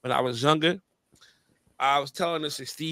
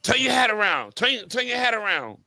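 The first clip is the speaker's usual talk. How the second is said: put-on higher, firm Jamaican-accented order; 5 semitones higher than usual. Jamaican father orders his son to turn his hat around, Jamaican accent. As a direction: Jamaican dad barking at the kid to fix his cap. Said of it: "that's a Jamaican accent".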